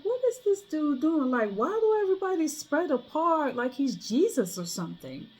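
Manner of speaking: high, incredulous griping; annoyed disbelief. Retold or imitated. Ticked off by the DJ parting the crowd, incredulous. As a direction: scoff at him like it's ridiculous. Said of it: "I was like".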